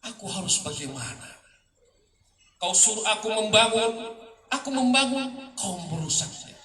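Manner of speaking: rising and falling dramatic recital, with loud accusing peaks; poem recitation. Acted. Poet reciting to an audience, dramatic poetry reading. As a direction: declaim each accusation, then drop into the weary refrain.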